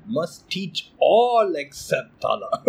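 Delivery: slow, lightly put-on wise sage; a hint of a calm old master, slow; mock holy man, drawn out slowly; mock Buddha. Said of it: "the Buddha said".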